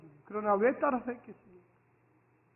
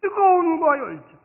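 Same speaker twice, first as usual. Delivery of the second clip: higher, louder "뜨거움과" with feeling; passionate cry; 6 semitones higher, 6 dB louder than usual. Shown as a demonstration. Pastor urging lifelong passion, loud. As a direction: fire it out. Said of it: "phrase said then echoed".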